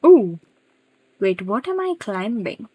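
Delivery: sudden loud startled ooh; surprised. Real, not acted. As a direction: caught off guard, blurt it out. Startled by something in game.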